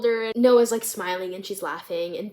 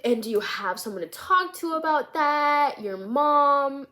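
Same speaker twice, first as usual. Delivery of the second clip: nervous counselor; 4 semitones higher than usual. Retold or imitated. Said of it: "he's also really nervous".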